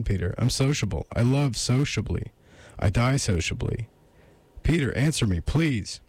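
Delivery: agitated woman's high-pitched pleading; voice rising steeply. Acted. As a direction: beg him to answer, pitched well up. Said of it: "Her voice rose steeply".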